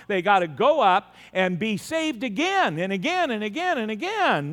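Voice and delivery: rolling, insistent repeats capped by a firm no; preacher's exasperated refrain; exasperated repetition. Real, not acted. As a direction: pile up the repeats, then cut them off. Mocking repeated salvation, then refuting.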